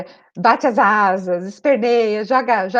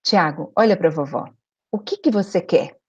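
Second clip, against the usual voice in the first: calm firm question; 4 semitones lower than usual. Retold or imitated. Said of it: "olhei na altura dos olhos dele e falei".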